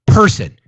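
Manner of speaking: "person" punched high and loud; stress on PERSON. Real, not acted. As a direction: hit "person" hard and high. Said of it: "let me say it again".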